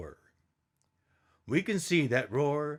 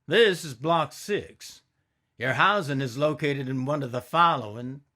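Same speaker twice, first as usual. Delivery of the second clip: official announcing; 2 semitones higher than usual. Acted.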